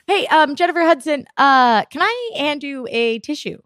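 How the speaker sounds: a hint of a careful director humouring stars; tactful director.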